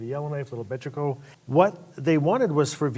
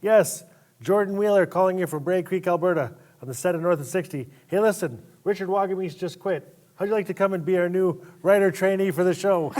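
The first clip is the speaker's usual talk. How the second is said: raised, upbeat voice of the caller with the offer; 4 semitones higher, 3 dB louder than usual. Retold or imitated. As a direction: pitch it like good news on the phone. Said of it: "And I go".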